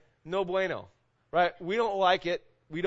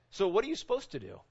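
ordinary talk

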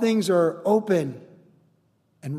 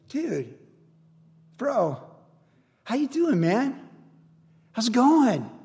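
soft, spaced-out buddy greeting, rising higher; friendly greeting; 4 semitones higher, 3 dB quieter, slower than usual. Acted. To someone who wronged you, friendly and forgiving. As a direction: greet an old pal with open affection.

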